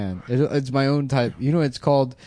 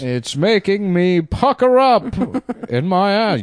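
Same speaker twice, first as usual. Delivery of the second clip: phone sex voice; 9 semitones higher, 4 dB louder than usual. Pretend. Phone sex line bit.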